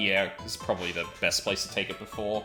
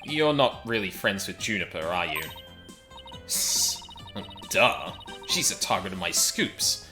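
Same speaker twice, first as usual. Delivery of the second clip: lightly voiced Solid Snake style; a hint of Solid Snake, soldier-like. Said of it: "giving her the Solid Snake voice".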